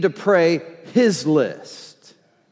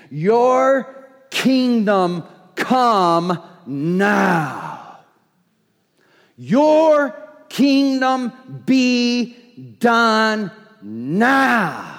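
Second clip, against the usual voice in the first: slow, emphatic declaration; declaring it; much slower than usual. Shown as a demonstration. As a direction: proclaim it as a done deal. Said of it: "It is saying, as well as praying".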